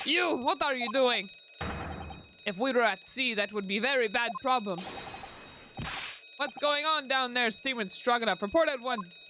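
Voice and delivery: stern ship's officer. Acted. Officer demanding a report from the seaman, stern. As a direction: call down sternly to a subordinate.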